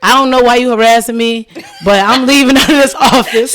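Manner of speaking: retold anger. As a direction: storm off in mock outrage, laughing. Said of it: "I'm pissed off".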